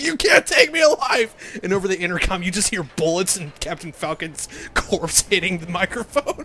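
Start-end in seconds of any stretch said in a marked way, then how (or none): 0.0-1.3 high, loud hammed-up last stand; defiant shout. Captain Falcon defying the police, shouting. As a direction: yell it like a cornered action hero. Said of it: "And Captain Falcon's like".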